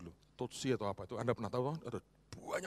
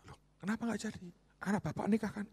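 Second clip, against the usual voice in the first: much higher, puzzled insistence; surprised pressing questions; 12 semitones higher, 4 dB louder than usual. Retold or imitated. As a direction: press him high and baffled. Pastor presses friend, retold.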